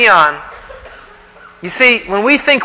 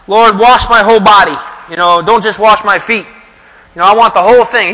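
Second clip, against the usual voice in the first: eager plea; 3 dB louder than usual. Retold or imitated. Peter's eager plea retold.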